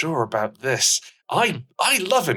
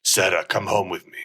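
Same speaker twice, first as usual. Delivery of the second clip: put-on Spanish accent; 4 semitones lower than usual. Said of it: "traditional Spanish accent".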